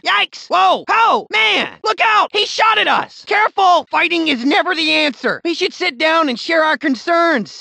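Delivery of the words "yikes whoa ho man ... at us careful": higher, sharp alarmed cries under fire; jumpy, scared warnings; startled yelps. Acted. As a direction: yelp in alarm as shots ring out. Being shot at.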